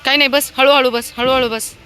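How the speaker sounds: high, loud coaxing; coaxing the dog. Real, not acted. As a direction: gently urge the lame dog to sit. Coaxing injured dog to sit. (लंगड्या कुत्र्याला उंच आवाजात हळूहळू बसायला सांगणे)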